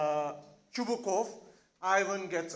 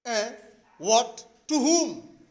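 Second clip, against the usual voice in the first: loud, rising acted bewilderment; confused; 2 semitones higher, 5 dB louder, much slower than usual. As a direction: ask it as if baffled. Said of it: "Ivan is still confused".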